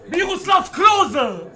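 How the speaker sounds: loud, stretched-out footballer call; commentator-like holler; drawn-out name call. Real, not acted. Calling out a player's name.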